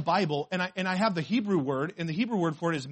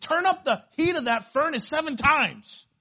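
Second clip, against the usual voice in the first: high, loud, slow mock-furious command; enraged king; 8 semitones higher, 6 dB louder than usual. Preacher acts out the king ordering the furnace heated, mock fury. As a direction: imitate a raging king giving orders. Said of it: "he was so mad".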